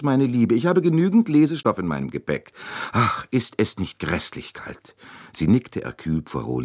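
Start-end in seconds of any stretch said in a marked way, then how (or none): 0.0-0.6 meine Liebe said high and a little louder as an eager aside; fussing lady's raised, eager meine Liebe; high endearment. Acted. Mrs Hubbard voiced by narrator. 0.6-5.0 high, bright-pitched fussing matron pressing a gift; chatty older American lady. Acted. Mrs Hubbard voiced by narrator.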